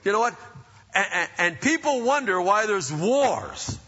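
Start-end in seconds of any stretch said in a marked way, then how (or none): 0.0-0.3 exasperated parent, higher and louder; frustrated parent. Retold or imitated. Parent fed up with bickering children, exasperated. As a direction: snap it out, fed up with bickering kids. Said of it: "I remember sometimes just being so frustrated".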